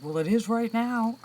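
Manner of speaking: loud, high, drawn-out retort; slow, emphatic mock-angry comeback; mad mom. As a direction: imitate an exasperated mother laying down the law. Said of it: "when she got mad at me".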